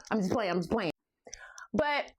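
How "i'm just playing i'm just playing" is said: whispered. Real, not acted. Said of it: "backing off joke".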